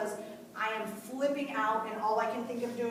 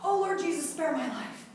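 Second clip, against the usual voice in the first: louder, higher pleading cry; hollered plea to Jesus; desperate prayer cry; 7 semitones higher, 5 dB louder than usual. Retold or imitated. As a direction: call out to God for your life. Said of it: "if I even hollered it out".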